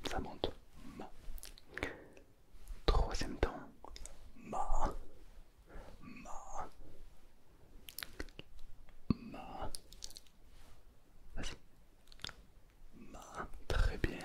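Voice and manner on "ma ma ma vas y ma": ma dipping down then back up; ma falls and rises; ma, dipping third tone. Shown as a demonstration. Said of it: "Ça descend et ça remonte".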